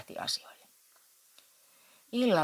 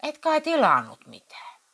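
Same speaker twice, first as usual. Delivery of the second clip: much higher and louder outraged shout; 12 semitones higher, 9 dB louder than usual. Acted. Husband shouts at wife over the ordered magazines. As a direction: yell at her in disbelief. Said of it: "huusi Matti Vienolle".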